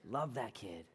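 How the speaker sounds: soft, sighing retold heartache; understated tender ache; heartbroken father. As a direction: sigh it softly, a touch of heartbreak. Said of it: "my heart's broken too".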